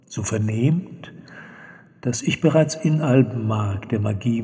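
solemn elf narrator. Acted. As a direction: read it like an ancient elf's testimony. Juliwe's written narration. (feierliche Elfenstimme, langsam und tief)

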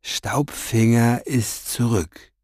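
slow, velvety reveal. A narrator's reading. Orpheus breaks the news to Farid up close, velvety. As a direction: savour the news, silkily drawn out. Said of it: "sagte er mit samtener Stimme".

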